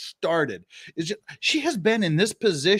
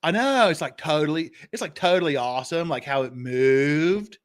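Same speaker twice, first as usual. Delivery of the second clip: exaggerated Valley Girl accent, stretched words; hammed-up Valley Girl gushing. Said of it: "you love my Valley Girl impression".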